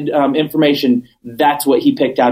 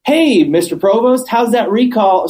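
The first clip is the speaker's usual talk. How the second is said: higher-pitched breezy hail, retold; retold calling out; 6 semitones higher than usual. Friend interrupts councilman on the courthouse stairs, calling out. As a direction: imitate a friend hailing someone.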